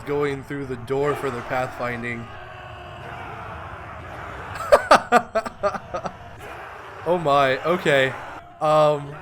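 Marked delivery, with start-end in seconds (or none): 2.3-7.0 long unvoiced giggle; long breathy laugh. Real, not acted. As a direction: laugh at the glitch. Laughs at pathfinding bug.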